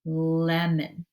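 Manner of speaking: "lemon" with its opening L held long; stretched sound. Shown as a demonstration. Teacher labeling the picture, "lemon" with a lingering L. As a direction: draw out the start of "lemon". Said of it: "So let's stretch it".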